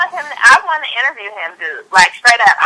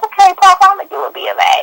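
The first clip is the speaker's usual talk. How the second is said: put-on young self; 9 semitones higher, faster than usual. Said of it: "I was like".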